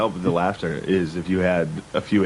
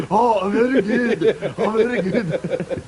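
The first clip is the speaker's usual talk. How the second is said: much higher mock Asian accent, drawn out slowly on the second line; 10 semitones higher, slower than usual. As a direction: ham up a mock Asian accent at the dinner table. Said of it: "Everyone doing it loud".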